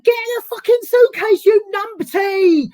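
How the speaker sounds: high, loud London producer yell; mock London screaming. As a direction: shriek it like a frazzled South London film boss. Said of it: "she's like".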